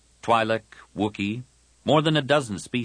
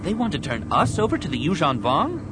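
defiant Tahiri; 9 semitones higher than usual. Acted. Tahiri hears Jedi will be handed over, defiant.

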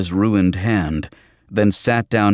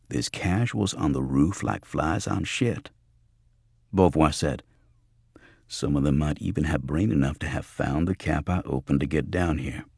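slightly lower, softer, unhurried answer; a hint of grim understatement; lightly voiced cool Beauvoir; 3 semitones lower, 5 dB quieter than usual.

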